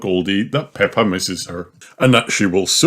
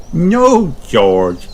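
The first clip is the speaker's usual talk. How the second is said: Peppa's voice; 2 semitones higher, slower than usual. Acted. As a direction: play the excited piglet. Peppa answers George.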